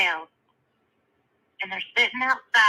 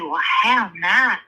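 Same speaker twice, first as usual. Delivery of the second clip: slow, louder mock-polite belle; Southern belle; 6 dB louder, slower than usual. Belle unimpressed by the horses, drawn-out mock politeness. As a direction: punch HOW and stretch out the polite dismissal. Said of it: "And the other lady".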